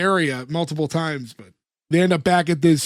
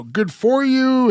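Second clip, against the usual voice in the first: a hint of a British nanny, higher and slowed right down; 6 semitones higher, much slower than usual. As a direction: coo it slowly like a mock nanny, lightly voiced. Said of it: "almost talking like a British nanny".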